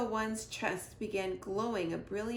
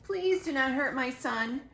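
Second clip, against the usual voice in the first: begging; 4 semitones higher, 6 dB louder than usual. Acted. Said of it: "begged Roz".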